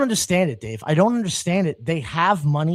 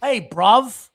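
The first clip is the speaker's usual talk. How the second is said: mock British accent. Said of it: "your goofy fucking accent".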